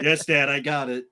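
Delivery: chuckling mock obedient yes; laughing kid reply. Kid answering dad, half laughing. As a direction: agree with a laugh in the voice. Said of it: "child answers dad".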